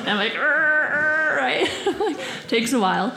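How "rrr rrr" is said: imitated car noise. Imitates straining while parallel parking.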